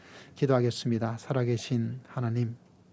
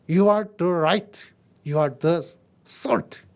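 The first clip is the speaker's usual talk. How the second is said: loud, very slow, higher; climactic proclamation; 6 semitones higher, 7 dB louder, much slower than usual. Acted. Preacher crying out to the believers, loud and slow. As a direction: ring it out word by word.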